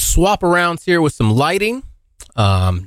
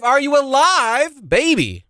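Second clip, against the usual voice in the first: mock yell; 12 semitones higher than usual. Sudden yelled line to audience.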